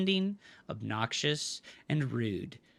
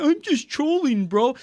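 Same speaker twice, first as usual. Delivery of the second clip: higher, whiny mock of a smug troll; 6 semitones higher, 5 dB louder than usual. Streamer mocking a chatter's excuse, sneering troll voice. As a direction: parody the excuse with contempt. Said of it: "how fucking retarded people are with this fucking comment".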